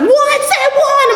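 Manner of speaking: high, startled disbelieving squeak; shocked disbelief. Retold or imitated. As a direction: caught completely off guard. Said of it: "And she's like".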